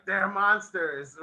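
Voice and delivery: slow hammed-up accusation; mock townsman. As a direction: drag it out, pointing fingers. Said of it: "the one dude ... is like".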